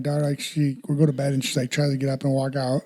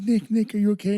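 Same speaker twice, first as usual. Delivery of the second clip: mock panic; 6 semitones higher than usual. Retold mother panicking over prank.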